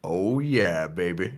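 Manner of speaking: low, slow satisfied purr; sultry weapon voice. Acted. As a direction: savour it like a lover. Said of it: "you hear in your head".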